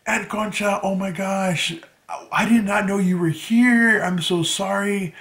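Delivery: high, pleading retold outburst; mock tearful plea. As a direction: act out an emotional apology to an aunt. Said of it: "I started bawling".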